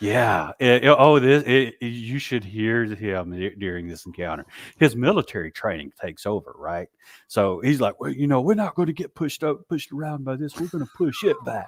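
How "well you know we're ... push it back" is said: amateur put-on British accent, pitched up. Retelling what a friend said during an encounter: imitating Adam's British accent. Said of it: "in his little best British little accent".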